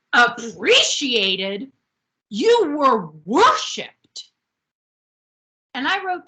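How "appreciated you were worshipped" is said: mock scream. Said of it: "comes in screaming".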